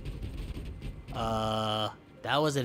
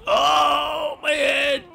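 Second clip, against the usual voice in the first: much higher, pleading whimper; squeaky pained voice; 11 semitones higher than usual. Pretend. Beaten wrestler begging the Fiend in a much higher squeal. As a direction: squeal and beg like you're being hurt. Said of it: "This is my real voice".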